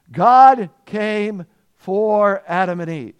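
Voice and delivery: God punched slow and loud; slow loud emphasis. Acted. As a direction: lean into God, slowly and loud. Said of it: "preacher's emphasis".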